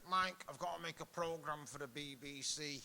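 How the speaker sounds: imitating his accent, lightly done; Terry Christian. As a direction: quote him in a put-on accent. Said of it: "Why am I doing the accent?".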